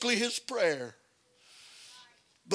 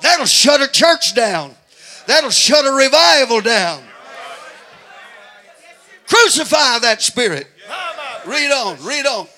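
loud, high shouting sermon; preaching at full force; 4 semitones higher, 8 dB louder than usual. Acted. Preacher urging congregation to crucify the flesh, shouting. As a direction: build to a hollering preacher's climax.

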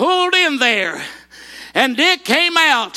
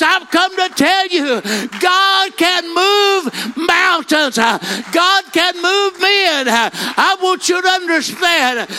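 preaching at full force; 5 semitones higher, slower than usual. Acted. Preacher proclaiming God's power to the congregation, shouting. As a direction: preach it out, drawing each word long.

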